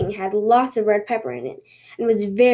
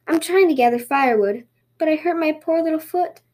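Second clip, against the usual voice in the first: lightly voiced sweet rabbit, lifting higher at the end; sweetly pitiful rabbit; 5 semitones higher than usual. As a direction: play a sweet little hurt rabbit. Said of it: "looked at him and smiled sweetly".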